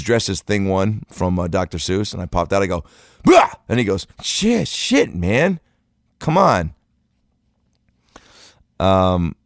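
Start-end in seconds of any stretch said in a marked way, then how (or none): 3.2-3.5 sudden loud "bah"; scare shout. Retold or imitated. Adult popping out of bushes, sudden scare shout. 4.2-6.7 high-pitched startled protest; startled kid. Retold or imitated. Kid scared by adult in bushes, high startled protest.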